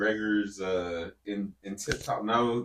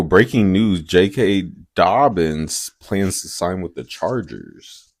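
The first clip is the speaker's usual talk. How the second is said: loud, slowed news-flash delivery; breaking-news announcement; 7 dB louder, slower than usual. Pretend. Co-host interrupts with breaking signing news, loud announcer delivery. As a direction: announce it like a bulletin, drawn out.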